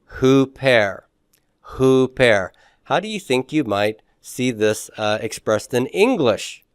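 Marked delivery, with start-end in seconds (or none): 0.1-2.5 hooper with an h and a long u; Greek hyper read hooper. Shown as a demonstration. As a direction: say hooper, breathing an h first. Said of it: "How would you pronounce that?".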